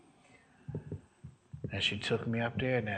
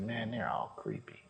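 muttered aside; 5 dB quieter than usual. Retold or imitated. Retold private thought under the breath.

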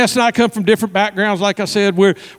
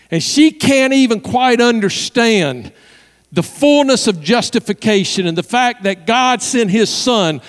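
building preaching; 3 semitones higher, slower than usual. Real, not acted. Preacher on forgiveness of her sins, building fervently. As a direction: build steadily to an impassioned peak.

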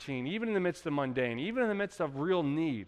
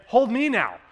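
put-on jealous toddler; 5 semitones higher, 7 dB louder, slower than usual. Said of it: "that's her way of saying".

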